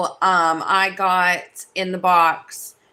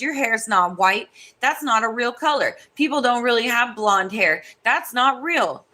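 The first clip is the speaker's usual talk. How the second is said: mocking the rude girl; 3 semitones higher than usual. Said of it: "She goes".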